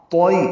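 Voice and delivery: توئی with a full heavy ت and rounded lips; heavy taa demo. Shown as a demonstration. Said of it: "تو پر پڑھیں گے". (توئی کو پر اور یا لین نرمی سے)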